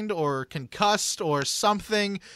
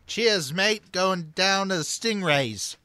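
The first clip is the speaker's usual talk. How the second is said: a weak hint of an Australian accent; bad Australian accent; 2 semitones higher, slower than usual. Host fakes an Australian accent for the player, barely Australian. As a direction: attempt an Australian accent, badly. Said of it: "best I can do for Australia".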